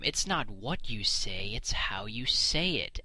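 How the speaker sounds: slow and sing-song, the last words whispered; mock the saying, drop to a whisper at the end. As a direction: parody of a wise old saying. Mocking the adage he rejects.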